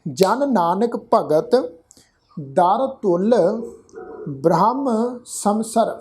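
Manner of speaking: ਜਨ ਨਾਨਕ ਭਗਤ, stop, then ਦਰ ਤੁਲ ਬ੍ਰਹਮ ਸਮਸਰ; pause after ਭਗਤ. Shown as a demonstration. Teacher showing the congregation where to rest, pause after ਭਗਤ. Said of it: "ਵਿਸ਼ਰਾਮ ਚਿੰਨ੍ਹ ਲਾਵਾਂਗੇ".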